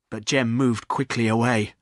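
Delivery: plain reading voice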